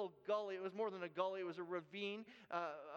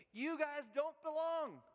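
stern verdict; 6 semitones higher, 4 dB louder, slower than usual. Retold or imitated. Worker confronts trespassers.

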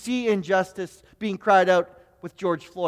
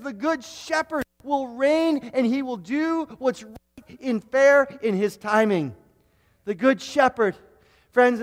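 preaching. Acted. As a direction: lean in and promise it, preacher. Preacher proclaims promise.

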